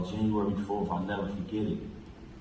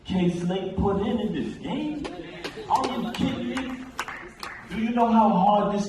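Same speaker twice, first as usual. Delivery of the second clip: impassioned disbelief; 9 semitones higher than usual. Real, not acted. Impassioned plea at memorial.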